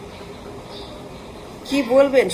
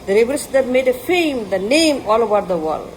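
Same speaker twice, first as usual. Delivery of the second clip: very slow, word by word, like a proclamation; solemn, drawn-out slogan; slow declaration; much slower than usual. Real, not acted. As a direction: lay each English word down slowly and grandly. English slogan inside a fiery speech.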